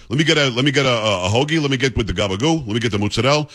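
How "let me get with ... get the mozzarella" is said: GABAGOO and MOZZARELLA as "gah-ba-goo", "moots-ah-DELL"; clipped endings on GABAGOO and MOZZARELLA, New York style; New York Italian pronunciation. Shown as a demonstration. Host ordering a hoagie, New York Italian GABAGOO and MOZZARELLA. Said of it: "You gotta say it right".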